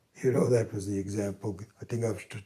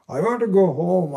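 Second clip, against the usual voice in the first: delirious plea; 8 semitones higher, 9 dB louder than usual. Retold or imitated. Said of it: "This is a story by Swami Chinmayananda".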